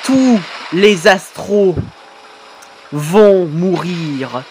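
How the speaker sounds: very slow, low ominous threat; menacing villain. Acted. Villain threatening the Astros, slow low menace. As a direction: drag each word out like a doom sentence.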